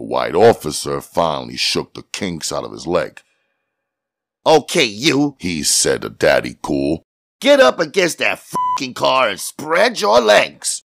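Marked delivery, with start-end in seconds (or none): 4.5-5.4 ordering policeman. A narrator's reading. Policeman ordering Daddy Cool. 7.4-10.8 high, forceful police command; irate cop's raised-voice order; ordering policeman. A narrator's reading. Policeman orders suspect against car.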